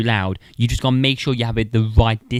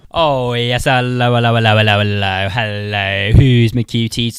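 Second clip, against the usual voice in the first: cutesy cooing; 7 dB louder than usual. Acted. Cooing into mic at a test.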